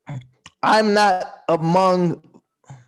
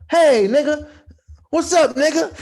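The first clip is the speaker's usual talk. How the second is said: mock greeting; 9 semitones higher, 3 dB louder than usual. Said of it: "greeting quotes".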